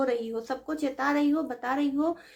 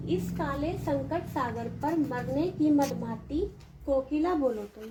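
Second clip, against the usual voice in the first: slow, softening poem recitation; 3 dB quieter, slower than usual. Shown as a demonstration. Teacher recites poem lines.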